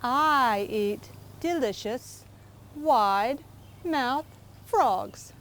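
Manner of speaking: slow, drawn-out hungry alligator; menacing alligator. Acted. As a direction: savour each word like a predator.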